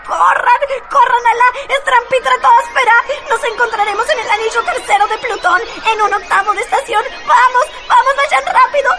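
urgent urging. Acted. Luciérnaga urges escape.

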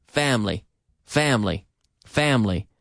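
FAMILY repeated as FAM-lee, each falling; two-syllable pronunciation. Shown as a demonstration. Teacher drilling the word for learners, two syllables. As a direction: drill family without its middle vowel. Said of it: "talking about two-syllable words".

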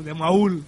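accent the U in "Maul", as ma-ÚL; stress on the U. Shown as a demonstration. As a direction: put the weight of "Maul" on its U. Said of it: "tiene acento en la U".

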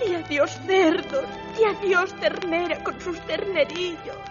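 put-on weepy girl bidding goodbye; tearful milkmaid. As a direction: sob through the farewells. Milkmaid weeps her losses. (lecherita llorosa)

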